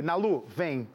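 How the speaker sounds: "Nalu, vem" split into name and call; alternative intonation. Shown as a demonstration. Host shows his reading of the handle, "Nalu, vem" as a call. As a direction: say "Nalu", then "vem" as a summons. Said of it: "Também pode ser essa entonação também".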